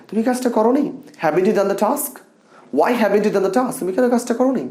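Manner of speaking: high, rising, reproachful questions; passionate reproach. Shown as a demonstration. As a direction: scold them with feeling, pitch up. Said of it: "আমরা কিন্তু এইভাবে emotion দেই".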